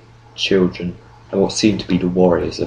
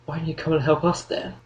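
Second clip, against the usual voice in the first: higher-pitched indignant question; raised-pitch challenge to her; retort; 10 semitones higher than usual. A narrator's reading. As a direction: retort with reproach. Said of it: "Frank retorted".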